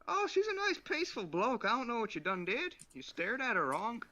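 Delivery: high, lilting mock Aussie; high comic Australian horse owner; Australian accent. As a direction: defend the horse in put-on Australian. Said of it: "then you went Australian".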